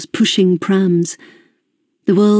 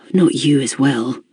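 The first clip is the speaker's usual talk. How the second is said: sighed; 4 semitones lower than usual. Acted. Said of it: "I sighed".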